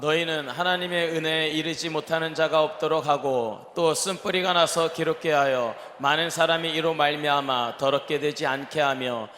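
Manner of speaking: ordinary talk, nothing marked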